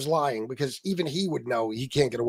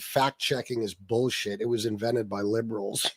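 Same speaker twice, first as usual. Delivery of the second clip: mocking a customer; 7 semitones lower, 6 dB quieter than usual. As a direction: drag it out like a dim grumble. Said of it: "a guy came in the other day and said".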